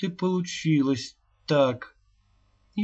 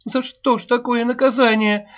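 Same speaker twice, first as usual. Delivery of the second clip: much higher, louder, near-sobbing wail; anguished lament; 11 semitones higher, 7 dB louder than usual. A narrator's reading. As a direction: cry out in grief to the child. Mother losing her daughter. (причитает в отчаянии, навзрыд)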